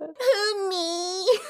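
very high, drawn-out mock astonishment; hammed-up flattered squeal. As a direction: act thrilled to be singled out, way up high. Mocking the flattered high school girl.

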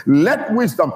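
"Let wisdom" with WISDOM stressed and swung down; emphatic push on both words of "Let wisdom"; inflection on WISDOM. Shown as a demonstration. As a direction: lean into WISDOM with feeling. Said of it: "Put the inflections on the wisdom".

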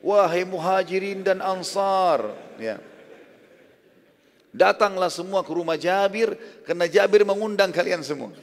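high, loud proclamation from a rock; calling out to the crowd. Retold or imitated. Prophet calling all the people to Jabir's house, loud. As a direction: summon the whole crowd, slow and loud. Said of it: "berdiri di atas batu yang tinggi teriak".

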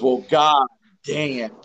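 slow, drawn-out mock drawl; a hint of Lou, slowed way down; Lou impression. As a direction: stretch it lazily like a bemused coach. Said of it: "he, he goes".

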